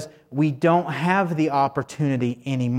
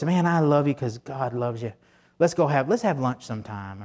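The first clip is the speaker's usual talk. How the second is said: soft, friendly "Man, I love you", a touch quieter; kind invitation; 4 dB quieter than usual. Retold or imitated. Pastor voicing a churchgoer inviting a neighbor, softly kind. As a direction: say it like a genuine invitation to lunch. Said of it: "instead of going and saying".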